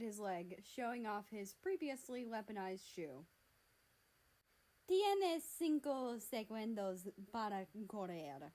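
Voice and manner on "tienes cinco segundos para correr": slow, menacing Spanish; slow Spanish threat. Acted. Mexico threatening America in slow, menacing Spanish. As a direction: spell out the threat slowly.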